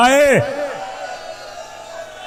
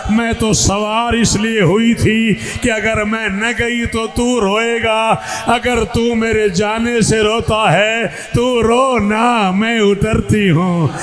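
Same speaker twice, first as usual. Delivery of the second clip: pleading sister; slower than usual. Acted. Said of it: "महमल का पर्दा हटा के कहती".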